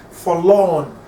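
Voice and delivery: "forlorn" with a short "for" and a drawn-out "lorn"; stress on LORN. Shown as a demonstration. Teacher showing the foot, "forlorn" stressed on "lorn". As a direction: lean on the second syllable of "forlorn". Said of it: "lorn" is stressed".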